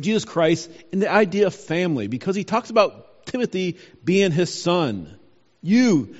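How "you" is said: single out "You" with weight, then pause; emphatic YOU. Retold or imitated. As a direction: lean firmly on "You". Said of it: "it's emphatic".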